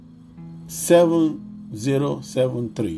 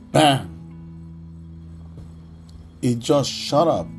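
excited. Real, not acted. Reveal of price chart.

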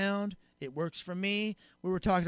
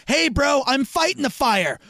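mock defensive fireman; 5 semitones higher, 6 dB louder than usual. Fireman retorting.

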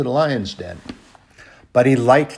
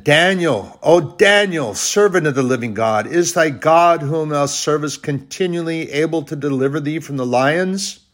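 king calling out; 5 semitones higher than usual. Retold or imitated. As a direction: call down into the den, anxious. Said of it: "cried with a lamentable voice".

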